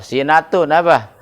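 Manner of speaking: "sinatun" read with an i on the sin, si-na-tun; sinatun with a kasrah. Shown as a demonstration. Teacher showing the kasrah reading to students, clearly pronounced. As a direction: say "sinatun" with i on the first letter. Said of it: "Kalau ente baca sinnya kasroh".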